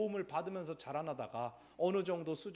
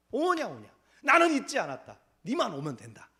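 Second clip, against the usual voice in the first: tender fatherly God; 4 semitones higher, 8 dB louder than usual. Acted. God answering his people, voiced.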